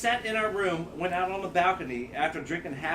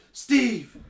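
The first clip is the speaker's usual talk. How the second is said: loud, high yell of a name; drunken holler; 5 semitones higher, 7 dB louder than usual. Retold or imitated. Man acting out his drunk friend's text, hollered. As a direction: call out for a lost friend.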